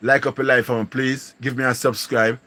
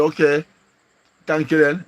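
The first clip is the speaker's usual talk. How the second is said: mock delighted thanks; 5 semitones higher, 3 dB louder than usual. Retells thanking a viewer for money.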